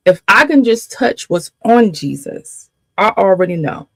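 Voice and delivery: reach out, urgent and determined; the desperate woman. Retold or imitated. Preacher voicing the woman who touched the hem, urgent.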